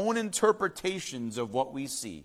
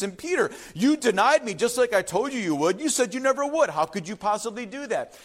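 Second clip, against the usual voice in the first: hypothetical angry Jesus; 4 semitones higher than usual. Pretend. Pretend Jesus reproaching disciples, mock hurt anger. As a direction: scold the friends who let him down. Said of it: "Jesus didn't come and say".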